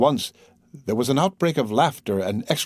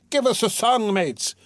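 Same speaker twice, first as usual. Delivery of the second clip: put-on much higher, merry drunken call; rowdy shout; 9 semitones higher than usual. Drunk reveler in the cart calling for a song, high rowdy shout. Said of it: "shouted someone in the cart".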